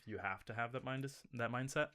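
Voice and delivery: talking with a mouthful of drink; mouth full. Real, not acted. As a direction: mouth full of Red Bull. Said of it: "my mouth is full of Red Bull now".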